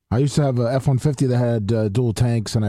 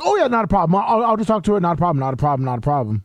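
mock casual friend; 4 semitones higher than usual. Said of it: "But he was like".

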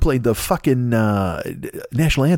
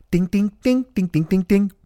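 high chiming ding imitation; ping it like an old arcade game; arcade ding sound; 8 semitones higher than usual. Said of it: "it would go".

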